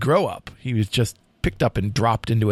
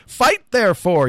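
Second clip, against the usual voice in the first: brief call with a high start, not truly loud; mild narrated yell; 7 semitones higher, 4 dB louder than usual. A narrator's reading. Youth challenging Lancelot to fight, mild yell. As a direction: jump up in pitch for a storyteller's yell. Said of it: "yelled the youth".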